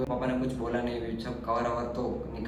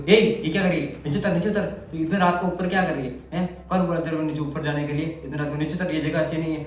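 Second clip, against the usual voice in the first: scolding father; 4 semitones higher, 3 dB louder, faster than usual. Retold or imitated. Father scolds daughter on sunroof.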